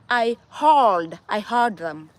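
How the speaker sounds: "heard" drawn out with an R colour; American pronunciation. Shown as a demonstration. Showing what needed saying, "heard" drawn out, not "had". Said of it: "I needed to say".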